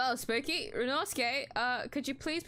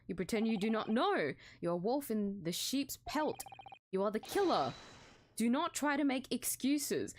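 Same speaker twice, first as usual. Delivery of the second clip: stern accuser; 3 semitones lower than usual. Acted. Officer scorning the suspect he pulled from a wardrobe, lower stern voice. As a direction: talk down to a suspect you dragged out.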